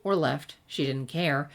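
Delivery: even storytelling read with light character voices; story narration. A narrator's reading. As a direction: read the tale to your listeners. Reads fan fiction aloud.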